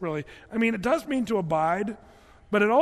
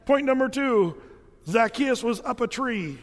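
loud, raised preaching voice; nervous student preaching; 3 semitones higher, 5 dB louder than usual. Retold or imitated. Nervous student shouting his sermon to the class. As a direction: belt it out like a nervous young preacher. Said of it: "and he says".

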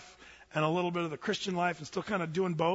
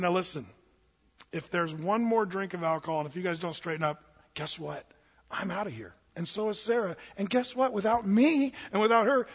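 retold angry ultimatum. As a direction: start controlled and stern, then push harder on the consequences. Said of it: "I, I, I, I snapped".

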